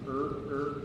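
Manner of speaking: mock growling "er" of a hard R; mock R sound. Shown as a demonstration. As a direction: imitate the ugly R the choir makes. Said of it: "there's that R".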